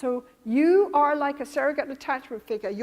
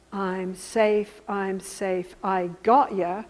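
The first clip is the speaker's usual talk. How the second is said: low, slow reassurance; calming; 5 semitones lower, slower than usual. Acted. Therapist calming an alarmed client, low and reassuring. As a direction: settle them with a low, steady voice. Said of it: "I'm calming her down".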